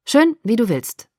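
a terse, annoyed give-in; irritated concession to her demand; sudden irritation. Acted. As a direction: snap it, fed up. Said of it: "sagte er mit plötzlicher Gereiztheit".

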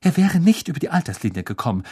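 sharp cutting fast retort. Acted. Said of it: "sagte Professor McGonagall schneidend".

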